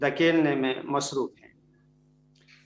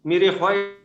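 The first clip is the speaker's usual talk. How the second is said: voice cutting out; 3 semitones higher, 3 dB louder than usual. Real, not acted. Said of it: "آپ کی آواز کٹ گئی ہے".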